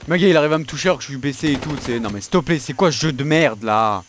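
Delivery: fast furious rant; raging gamer. Real, not acted. Raging at a game death.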